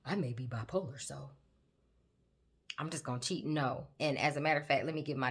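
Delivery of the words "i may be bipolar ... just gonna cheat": mock excuse maker. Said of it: "some people out there saying".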